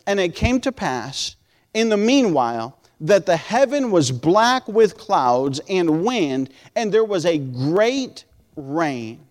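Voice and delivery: slow, weighty Bible reading from the pulpit; scripture reading. Acted. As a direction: draw out key words, dropping at the close. Reads scripture aloud to congregation.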